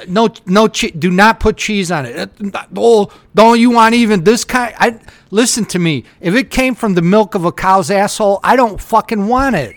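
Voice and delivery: heated, loud ranting about cheese; angry rant. Retold or imitated. Complaining to a friend about Subway, heated loud rant.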